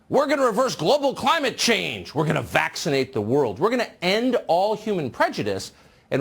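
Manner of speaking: mock-grandiose, like a ruler commanding the world; grandiose leader voice. Host mocking Western leaders, lightly voiced pompous grandeur. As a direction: ham it up as a self-important head of state. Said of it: "They all sound like this".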